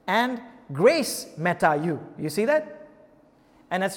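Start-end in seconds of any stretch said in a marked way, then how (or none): 0.7-2.0 "grace meta you" slow and loud; weight each word of "grace meta you"; "grace" drawn out and punched before "meta you"; emphatic quote. Shown as a demonstration. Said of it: "two times this emphasis".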